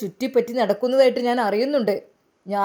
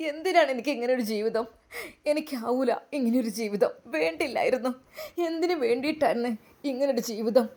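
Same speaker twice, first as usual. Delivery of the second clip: crying; 5 dB quieter than usual. Acted. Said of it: "അവനും പൊട്ടിക്കരയുകയായിരുന്നു".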